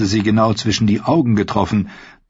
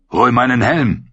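barked order; 3 semitones higher than usual. Acted. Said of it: "herrschte Clegane sie an".

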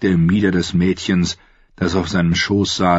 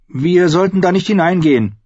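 put-on higher, girlish worried voice; young Arya; 11 semitones higher, 4 dB louder than usual. Girl's voice, uneasy. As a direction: Arya urges the Hound to stay out, worried.

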